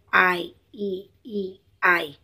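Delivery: आईईईआई sung out as one long gliding vowel chain, very slowly; stretched vowel string. Shown as a demonstration. Teacher showing students how many vowels run together. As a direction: drag each vowel of आईईईआई into the next. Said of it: "देखो इसमें कितने सारे आ गए".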